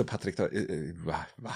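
low, muffled mock prank caller; a hint of a disguised prank-call voice; disguised deep voice. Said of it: "Scherzanruf mit verstellter Stimme".

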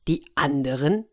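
mildly surprised echo, rising at the end; astonished. Acted. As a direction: question it in mild disbelief. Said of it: "rief Charming erstaunt". (erstaunt nachfragend)

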